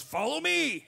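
high, cheery follow me; high upbeat come-along; eager call. Retold or imitated. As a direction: call it out like a helpful stranger. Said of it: "And he goes".

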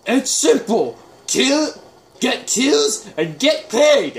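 high, loud squawking alien creature voice; a hammed-up little alien mercenary bragging about getting paid; bad Jackal voice. Quoting the Kid Yar from the game, a high, loud hammed-up alien squawk. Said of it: "the worst Jackal voice I've ever done".

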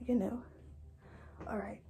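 breathless, catching her breath. Real, not acted. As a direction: talk while winded from exercise. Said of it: "I know I'm out of breath".

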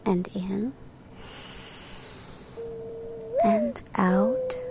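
soft whispered breath cue; whispering. Shown as a demonstration. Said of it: "take a deep breath in".

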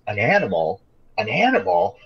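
mock-incredulous echo, pitch jumping on each repeat. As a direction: imitate a jerk throwing the words back in scorn. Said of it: "in the most mocking way possible".

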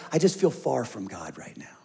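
hushed, breathy confession of distance; a small unvoiced admission; whisper. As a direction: whisper it like a private doubt. Quoting our own inner complaint.

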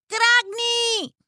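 high, strangled crow caw; harsh raven cry; horrible croak. Acted. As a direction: squawk like a crow. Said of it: "le salió un horrible graznido".

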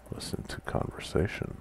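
breathy whispered command. Real, not acted. Typing command quietly.

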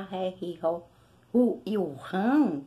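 ré, ri, ro, ru with a throaty strong r; strong r syllables. Shown as a demonstration. Teacher drills the strong double-r sound, syllable by syllable. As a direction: voice the r hard from the throat in each syllable. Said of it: "é porque é R duplo".

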